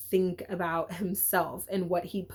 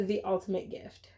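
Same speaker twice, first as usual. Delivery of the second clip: softly whispered, like sharing a secret; whispered title reveal; 5 dB quieter than usual. Real, not acted.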